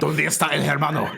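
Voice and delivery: mock Spanish. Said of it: "I have to speak in Spanish".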